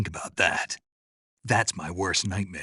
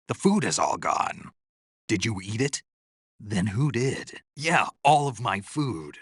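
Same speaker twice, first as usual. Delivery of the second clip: higher-pitched indignant questioning; 3 semitones higher than usual. Acted. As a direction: press them over the missing food. Finds his food all gone.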